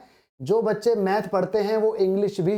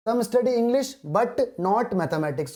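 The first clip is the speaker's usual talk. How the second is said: reading each word out very slowly; slow dictation; 3 semitones higher, much slower than usual. Shown as a demonstration. Teacher reading the question aloud to students, very slowly. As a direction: spell the question out word by word for the class.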